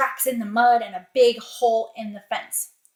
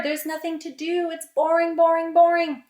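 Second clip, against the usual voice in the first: raised, sing-song grumble; bored whine; 5 semitones higher, 3 dB louder than usual. Acted. Peter has nothing to do, whining in boredom. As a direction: complain as a bored boy would. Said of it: "He's so bored".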